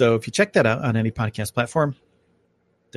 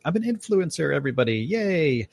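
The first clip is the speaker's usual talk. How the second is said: mock self-important; 5 semitones higher than usual. Mock bragging about influence.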